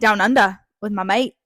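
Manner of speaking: put-on loud, amateur Aussie accent; attempted Australian accent. Podcaster showing how hard it is, mock Australian accent. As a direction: ham up a rough Australian accent. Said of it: "Australian accents are really hard".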